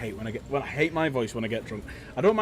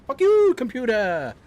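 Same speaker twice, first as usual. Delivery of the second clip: furious outburst at the screen; angry shout; 10 semitones higher, 8 dB louder, slower than usual. Real, not acted. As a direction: yell it at the computer, slow and loud. Yelling at the game.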